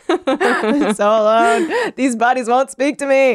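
high, slow wail through laughter; hammed-up lament. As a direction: wail it like a tragic hero. Coroner laments louder.

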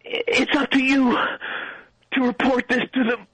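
milk the last words like a bad movie; overacted death scene. Mock dying speech.

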